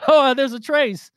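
high, loud cry of pretend discovery; mock discovery. Cohost scanning Vince's face with a black light, mock discovery. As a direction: exclaim it like you've just found the evidence.

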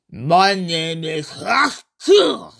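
slow, calm otherworldly alien voice; alien being. Acted. Alien Kafu introducing itself to the human, slow and calm. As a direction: speak as a patient visitor from another dimension.

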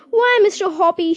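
a woman thrilled by a marriage proposal, crying out; delighted cry. Acted. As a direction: cry out his name in joy. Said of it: "she cried".

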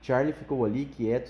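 ordinary delivery

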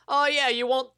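lightly imitating an Irish fighter's accent; mock Irish accent. Teasing McGregor in a mock Irish accent. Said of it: "talking his little Irish accent".

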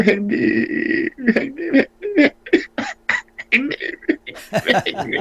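tearful thanks. Acted. The younger brother tearfully calling his elder brother in thanks. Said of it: "형님한테 고맙다 인사하세요".

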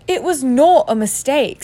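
put-on high, loud boy's protest; angry. Boy contradicts his uncle, angrily. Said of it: "said Harry angrily".

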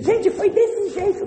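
high, drawn-out mock exclamation; crente literal imitado. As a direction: put on a very high, slow voice as someone taking the myth literally. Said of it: "Não é pra ninguém dizer". (voz aguda e arrastada, imitando um crédulo)

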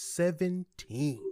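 high, very slow, drawn-out exclamation; stunned disbelief. Real, not acted. Co-host reacting to blown seventeen-point lead, incredulous. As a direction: stretch the number out, appalled.

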